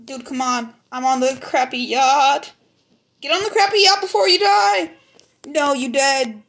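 glitchy mic; broken up, bitcrushed audio. Real, not acted. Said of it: "Your mic is so glitchy".

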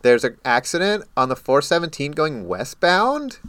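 mock radio traffic voice. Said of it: "does traffic in that voice".

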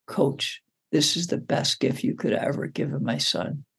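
soft, hushed voice imitating a whisper; retold whisper. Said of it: "she whispers in my ear".

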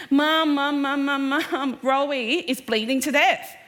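put-on breathless, urgent "Mum, Mum" from a scared boy; panicked child calling. Twin boy runs to mum crying that his brother is bleeding, panicked calling. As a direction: call out like a frightened kid with bad news.

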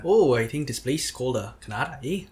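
mock Canadian accent. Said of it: "Oh, the A at the end. Your A is bad".

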